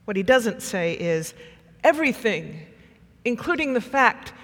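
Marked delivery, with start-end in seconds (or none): 1.8-4.3 louder, insistent outpouring of guilt; anguished confession. Acted. Peter confessing to Jesus what he cannot escape, anguished and louder. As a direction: press through the haunted memory, loudly.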